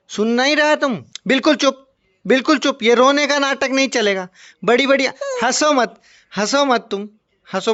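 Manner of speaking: playful pretend telling-off; lightly stern, as if laying down the law; mock scolding. Man telling a child not to bother anyone, mock stern.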